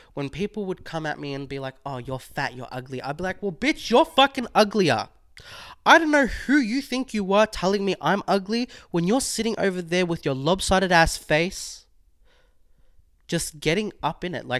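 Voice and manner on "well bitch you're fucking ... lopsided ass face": loud, high, aggressive, in-your-face delivery. Reenacting a past reply to people who insulted them, replaying an aggressive comeback. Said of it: "more aggressiveness in my tone of voice".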